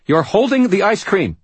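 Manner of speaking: sharp high call from another room; snapping. Acted. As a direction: snap his name from the house. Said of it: "snapped Charity's voice".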